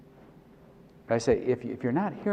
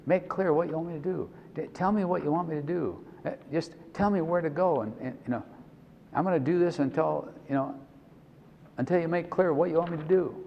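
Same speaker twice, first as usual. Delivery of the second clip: retold pleading prayer; 7 semitones higher than usual. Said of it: "And I kept saying".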